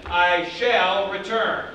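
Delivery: slow, firm I shall return; mock general declaring his return; emphatic. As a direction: hit shall for resolve. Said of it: "he was trying to be emphatic".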